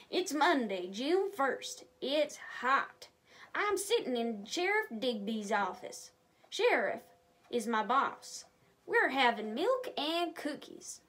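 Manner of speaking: lively, expressive storybook narration; reading to children. Acted. A reader telling kids the story of Deputy Dan, lively. Reads story aloud to viewers.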